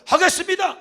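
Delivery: 하겠습니다 said high and loud like a vow; bold declaration. Shown as a demonstration. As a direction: shout 하겠습니다 as a firm vow. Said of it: "못해요 하지 말고 하겠습니다". (하겠습니다를 크고 높게 선언하듯)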